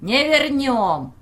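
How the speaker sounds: high, loud and slow shout. Acted. Villager yelling defiance from the hall, a loud slow shout. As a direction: bellow it from the crowd. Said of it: "послышался крик".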